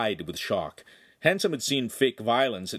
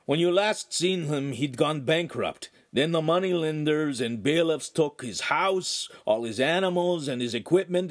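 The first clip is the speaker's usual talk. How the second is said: put-on higher, eager young lad voice; lively young servant; 5 semitones higher than usual. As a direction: chatter on like a scrappy servant boy. Ugolino's long reply to priest.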